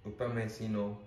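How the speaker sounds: "Upamecano" said with an Indian accent, as "oo-pa-meh-see-no". Real, not acted. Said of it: "Me and my Indian accent".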